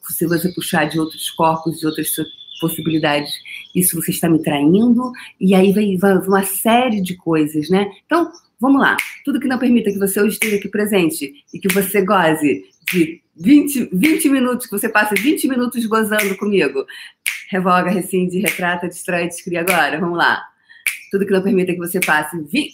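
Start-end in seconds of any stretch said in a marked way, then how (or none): none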